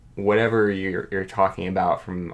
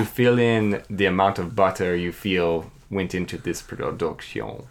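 hammed-up French accent. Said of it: "Your French accent is so good".

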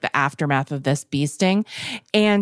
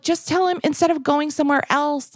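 higher, eager friends insisting; excited group plea; 9 semitones higher than usual. Retold or imitated. Friends urging the husband to stay, higher eager plea. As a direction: coax him like eager friends.

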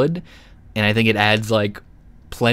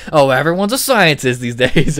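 sarcastic; 5 semitones higher, 6 dB louder than usual. Retold or imitated. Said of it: "do you mean it in, like, a sarcastic way".

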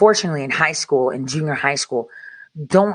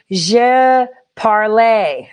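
put-on slow, drawn-out mangled French accent; bad French accent; 5 semitones higher, 5 dB louder, much slower than usual. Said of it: "with that accent rather than".

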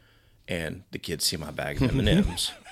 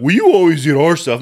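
loud, high protest; pitched-up kid complaint; complaining kids; 8 semitones higher, 9 dB louder than usual. Retold or imitated. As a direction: whine it out like an accusing child. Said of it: "So they're like".

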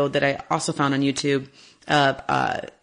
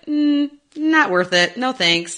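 higher, slow, unimpressed refusal; unimpressed lioness; 8 semitones higher, slower than usual. Retold or imitated. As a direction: voice a lioness saying no thanks. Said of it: "her face in the video is like".

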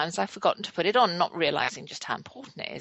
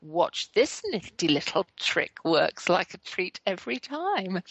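crafty dog's voice. Retold or imitated. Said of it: "He seemed to be saying".

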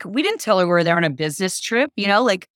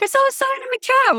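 much higher, breezy mock voice; high playful imitation of a friend; imitating Stacy; 3 dB louder than usual. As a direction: toss it off lightly like it's obvious. Voicing Stacy's casual answer.

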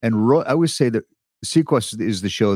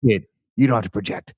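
lightly imitated gravelly veteran actor; a touch of gravel, understated and unprojected. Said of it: "he's got this gravelly voice".

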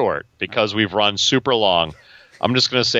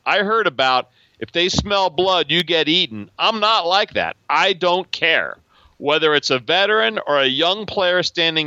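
raised voice, cocky quoted rookie; arrogant rookie; 4 semitones higher than usual. Retold or imitated. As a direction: read it like a brash young player. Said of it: "what arrogant rookie from two thousand fifteen said".

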